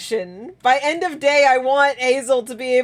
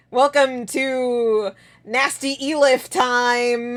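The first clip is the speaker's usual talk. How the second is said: slow game-show announcer intro; slower than usual. Pretend. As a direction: present it like a hammy TV host. Announces silly coding segment.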